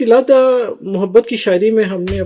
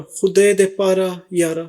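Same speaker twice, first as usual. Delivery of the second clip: slow phrase reading. Shown as a demonstration. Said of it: "خوا کا مطلب ہے".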